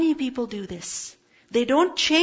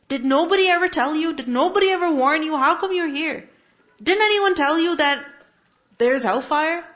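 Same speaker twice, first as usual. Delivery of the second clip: louder, quicker reproachful questions; scolding angel guards; 4 semitones higher, 3 dB louder than usual. Acted. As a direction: demand it like a stern guard of hell. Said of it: "they will ask".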